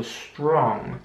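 "strong" drawn out with a very round O. Shown as a demonstration. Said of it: "das O sehr ründlich auszusprechen".

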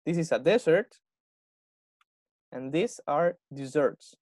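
slow model of "dessert" and "desserts" with the stress on the second syllable; careful pronunciation. Shown as a demonstration. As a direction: slowly contrast "dessert" as di-ZERT. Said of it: "cuidado con la pronunciación entre esas dos palabras". ("dessert" lento, con el acento en la segunda sílaba)

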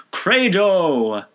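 high, loud ringing cry; lion-voiced shout. A narrator's reading. John McHale submits before the Pope, lion-voiced shout. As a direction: proclaim it like a roaring lion. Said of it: "shouted out with the voice of a lion".

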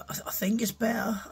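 breathy, voiceless croak after covid; barely voiced, whispering through a sore throat; hoarse whisper. Real, not acted. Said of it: "as you can hear my voice".

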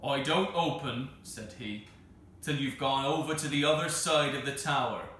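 loud voice through a keyhole. Acted. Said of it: "deep-chested words through the keyhole".

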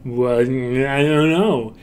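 slow, smeared mumble; mumbled. Shown as a demonstration. Repeating the line where lips are unimportant, slow mumble. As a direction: let the words wobble and blur together. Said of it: "maybe they're mumbling".

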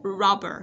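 "Robber" with an open "a" vowel, like "rubber"; isolated teacher demo of "rubber". Shown as a demonstration. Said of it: "chữ U đọc sẽ là âm A".

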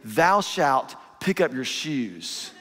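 hammed-up holy pronouncement; mock biblical decree. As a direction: decree it like scripture, half laughing. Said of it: "You start getting theological on 'em".

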